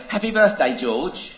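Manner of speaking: high, bright singsong wish to a pet; sing-song birthday greeting. Acted. Owner cooing happy birthday to her goldfish, high singsong. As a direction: chirp it out like a doting owner.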